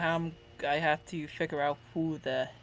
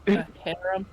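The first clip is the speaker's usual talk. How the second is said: sharp surprised question; 6 dB louder than usual. Acted. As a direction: blurt it out in disbelief. Character surprised by the word.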